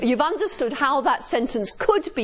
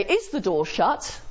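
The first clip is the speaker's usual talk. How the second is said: interrogative tone. Shown as a demonstration. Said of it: "interrogative tone".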